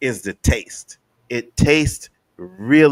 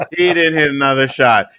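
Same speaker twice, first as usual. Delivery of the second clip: louder, punchy restatement; triumphant louder restatement to friends; emphatic repeat; 5 dB louder than usual. Real, not acted. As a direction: hit it home the second time. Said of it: "repeated with emphasis".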